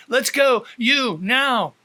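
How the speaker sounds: officer calling the husband out; urgent command. Acted. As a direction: hurry him along.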